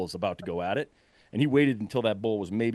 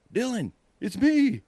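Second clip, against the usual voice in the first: high, slow call across the woods; answering the brother-in-law's yell, high slow call; calling back; 12 semitones higher, slower than usual. Retold or imitated. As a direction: stretch it out so it carries far.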